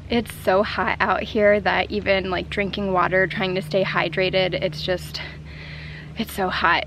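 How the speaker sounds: panting between words in the heat; out of breath. Real, not acted. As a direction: talk while still catching your breath. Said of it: "I'm so out of breath".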